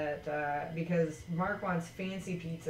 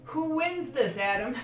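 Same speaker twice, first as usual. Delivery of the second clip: excited; 7 semitones higher, 4 dB louder than usual. Real, not acted. Excited giveaway announcement.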